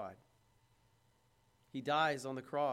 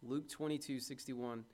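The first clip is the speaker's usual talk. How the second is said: "Luke twenty-two sixty-one" said again, softer; the verse reference echoed, softer; repeated softly; 4 semitones lower, 8 dB quieter than usual. Shown as a demonstration. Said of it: "repeated reference".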